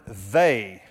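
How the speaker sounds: single out the word "they"; stress on they. Shown as a demonstration. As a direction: isolate "they" with a falling tone. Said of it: "Notice the word".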